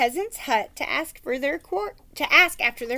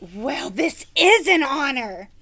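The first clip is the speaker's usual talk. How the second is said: peasant woman; 4 dB louder, slower than usual. Acted. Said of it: "she said".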